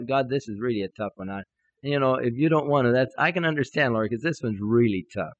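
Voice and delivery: mildly hesitant, excusing prayer; tentative, let God off the hook; apologetic. Retold or imitated. Timid believer praying about a tough need, apologetic. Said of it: "apologetic attitude".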